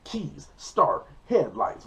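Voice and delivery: terse mock-angry list, pausing between items. Driver angrily starting the car, retold irritation. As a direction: act out each step with irritation. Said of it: "everything I'm doing is angry".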